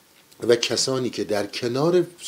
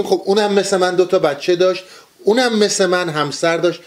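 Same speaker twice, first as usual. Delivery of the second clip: mock small-minded voice; 6 semitones higher than usual. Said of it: "نکشونیم تو لول خودمون".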